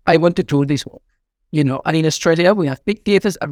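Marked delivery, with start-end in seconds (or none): 0.1-1.0 light mock Spanish accent on darling; gently imitating a Spanish accent. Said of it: "with a very Spanish accent".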